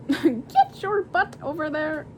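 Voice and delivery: a hint of a bossy parent; mocking bossy voice. Shown as a demonstration. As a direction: play someone who orders people around. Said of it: "I never talk like that".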